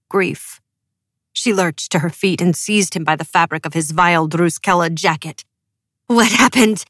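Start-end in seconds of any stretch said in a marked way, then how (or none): 6.1-6.8 shrill. A narrator's reading. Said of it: "Her voice was shrill, sharp as broken glass".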